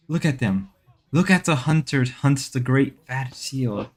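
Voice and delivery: slow, hushed wildlife narrator; nature documentary. Pretend.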